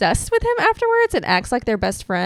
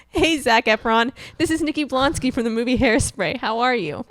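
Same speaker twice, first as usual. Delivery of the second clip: Nikki Blonsky impression; 2 semitones higher than usual. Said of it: "She probably called him and said".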